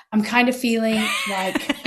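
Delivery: said through a laugh; giggling over the slip. Real, not acted. Catching her own slip while retelling, laughing. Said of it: "oops, I said his name".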